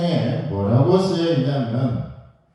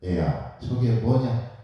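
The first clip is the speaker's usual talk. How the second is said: put-on old father asking; 4 semitones lower, slower than usual. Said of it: "그러자 아버지가 물었죠".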